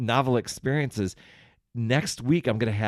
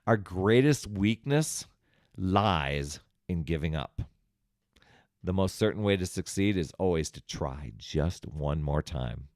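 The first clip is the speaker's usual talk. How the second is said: reading a quote; 3 semitones lower than usual. Acted. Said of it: "here's a quote by Thomas Edison".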